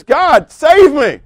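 high, loud, slow plea to God; a desperate thief begging God; pleading cry. Acted. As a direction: cry out for rescue. Preacher voicing the dying thief.

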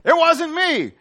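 high, loud squeaky protest; high mock denial. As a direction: deny it like a caught kid. Peter denies, mock.

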